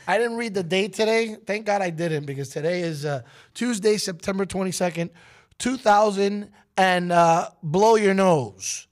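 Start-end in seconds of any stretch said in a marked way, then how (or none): 3.5-8.9 sarcastic. Pretend. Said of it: "every day I find a new way".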